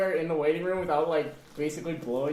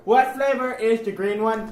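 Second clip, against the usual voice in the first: slow, higher silly voice; 5 semitones higher, 7 dB louder than usual. Pretend. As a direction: ask it like a dopey kid. Silly kid voice question.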